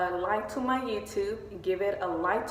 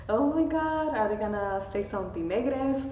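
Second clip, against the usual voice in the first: retold nervous worry; 2 semitones higher than usual. Stylist recalling her worry over her hair, mock nervous. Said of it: "I was nervous".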